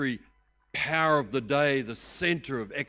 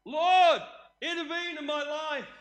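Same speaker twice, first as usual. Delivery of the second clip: high, fervent cry to God; shout of faith; 13 semitones higher, slower than usual. Shown as a demonstration. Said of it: "Come here and go".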